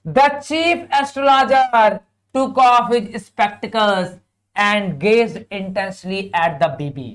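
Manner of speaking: very slow, measured English reading; drawn-out teacher's dictation pace; textbook read-aloud. Acted. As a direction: read it out word by word for a class. Reads textbook passage aloud.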